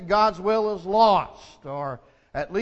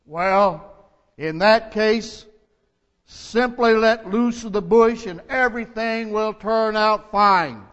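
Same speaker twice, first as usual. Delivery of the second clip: calm voice; 4 dB louder than usual. Acted. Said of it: "that calm voice said".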